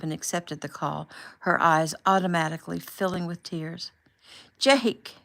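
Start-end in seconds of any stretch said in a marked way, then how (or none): 4.6-5.1 joyful cry of his name, pitched high and loud; cried out. A narrator's reading. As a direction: call out his name, overjoyed to see him. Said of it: "she cried".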